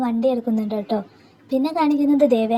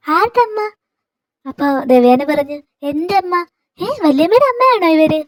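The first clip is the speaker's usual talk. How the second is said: surprised question; 5 semitones higher than usual. Acted. Anamika surprised by the news.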